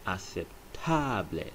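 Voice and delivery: aceptable said slowly, ah-sep-TAH-bleh; slow Spanish aceptable. Shown as a demonstration. Teacher slowly models es aceptable. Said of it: "is pronounced as es".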